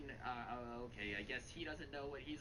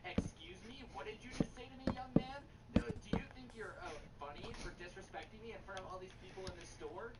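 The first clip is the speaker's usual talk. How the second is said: lightly imitated mother scolding her son; indignant scolding, mildly hammed up; mock angry mom; 3 semitones higher than usual. Mother scolding son in store, mock indignant. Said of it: "she looks at her son and goes".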